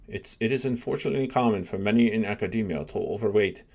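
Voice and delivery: put-on a light, half-hearted South African accent; lightly put-on South African accent for the quote. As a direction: read the tweet in a mild South African accent as Elon Musk. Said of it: "my best South African accent".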